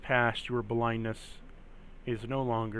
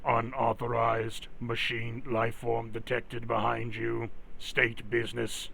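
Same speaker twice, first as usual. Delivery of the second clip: steady mechanical guard voice; robot voice. Acted. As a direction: speak as a stiff security robot. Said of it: "Oh, that robot voice".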